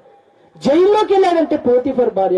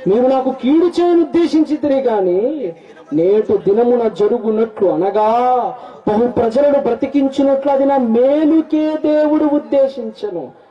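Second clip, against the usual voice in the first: slow, raised solemn Bible reading; scripture reading; 2 semitones higher than usual. Acted. Preacher reads verse twenty slowly to the church, solemn reading. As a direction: read the verse out slowly to the congregation.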